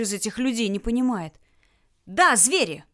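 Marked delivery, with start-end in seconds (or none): 2.1-2.8 рявкнул. Acted. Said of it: "рявкнул Герман".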